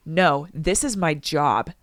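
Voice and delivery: low, slow stand-your-ground reply; firm refusal. Acted. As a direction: hold your ground, unhurried. Reads own firm refusal.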